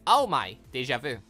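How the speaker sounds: ordinary talk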